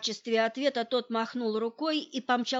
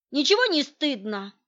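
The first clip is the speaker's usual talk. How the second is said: наступательно; 4 semitones higher, 7 dB louder than usual. A narrator's reading. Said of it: "пошёл в атаку Николай Сергеевич".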